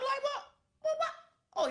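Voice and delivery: high, laughing disbelief; a squeal of laughing shock. Retold or imitated. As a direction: she can't believe people are leaving, laughing. Disbelief at the news retold.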